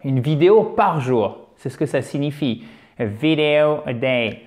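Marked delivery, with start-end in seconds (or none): 3.0-4.4 "video" stressed on its first syllable, "vi"; "A video a day" with the weight on "vi". Shown as a demonstration. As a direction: hit the "vi" of "video" firmly. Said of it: "l'accent tonique est déjà sur la première syllabe".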